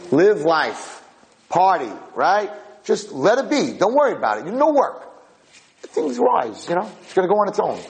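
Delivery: high, carefree coaxing voice; tempting evil inclination. Acted. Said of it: "The Yetzer Hara says".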